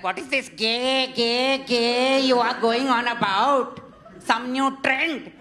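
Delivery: lightly voiced Indian grandma, slow and incredulous; dismissive matriarch brushing it off, played for laughs; a hint of a blunt old lady with a light Indian accent; imitating Indian grandmother. Grandmother quoted at breakfast.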